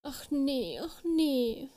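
high, dismayed fairy wail; tearful wail. A narrator's reading. Lost little fairy with no one to help, wailing. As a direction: lament it on the verge of tears. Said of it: "fing sie wirklich an zu weinen".

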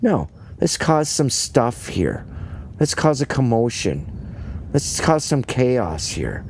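lightly voiced busybody; mock busybody. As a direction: stir things up with relish. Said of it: "Just pointing fingers".

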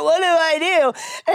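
high, slow, laughing imitation; helpless husband. Retelling husband asking girls for advice, mock helpless plea.

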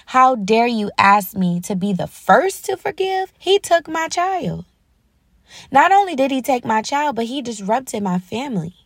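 anguished protest, pitch climbing high then easing down; indignant, hurt parent, acted without shouting; retold rage. Grieving father challenging God over forgiveness, retold anger. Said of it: "He's angry. He's enraged".

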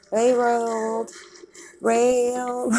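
loud call. Real, not acted. Yelling advice at movie.

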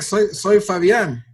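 slow, stressed "soy Fabián"; emphatic slow. Real, not acted. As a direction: insist on who you really are. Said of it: "no soy Greg". ("soy Fabián" dicho lento y con énfasis)

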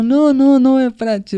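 high, loud mimicked protest; indignant. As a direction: imitate an outraged girl objecting. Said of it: "a menina chegou revoltada". (protesto agudo de menina revoltada, imitado)

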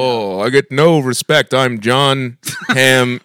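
Rodney Dangerfield impression. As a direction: complain like a washed-up comedian.

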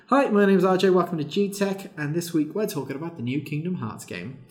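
upbeat YouTuber intro; vlogger intro. Retold or imitated. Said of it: "I am just there being like".

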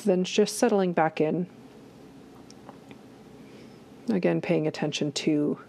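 calm guided body scan with long pauses; unhurried meditation guide, pausing often. Acted. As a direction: lead listeners gently inward, leaving space between phrases.

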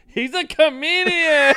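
very high, drawn-out cry; hammed-up, stretched-out proclamation; imitated waitress announcing. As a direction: announce it to the whole restaurant. Waitress announces to whole restaurant.

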